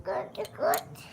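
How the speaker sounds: soft voiceless whisper. Real, not acted. Child answering mother in a whisper. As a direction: breathe it out secretly.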